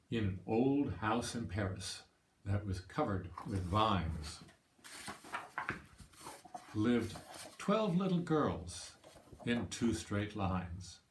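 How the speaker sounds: slow, deliberate picture-book narration; measured storybook verse with lingering pauses; story reading to children. Acted. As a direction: read it slowly, line by line, to listening children. Reads picture book aloud.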